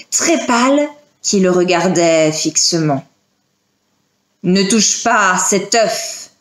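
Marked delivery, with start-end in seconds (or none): 4.4-6.3 slow, insistent command; grave, drawn-out pressing warning; urgent warning. Acted. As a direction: warn him off, pressing each word. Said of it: "d'une voix pressante".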